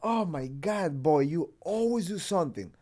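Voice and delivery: lightly voiced fed-up grandmother; imitated grandmother. Grandmother to her injured grandson, mildly exasperated. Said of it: "My grandmother didn't even freak out".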